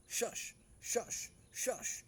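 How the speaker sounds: high, unvoiced shushing; hissed shush. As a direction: hush them sharply. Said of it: "and I'm like".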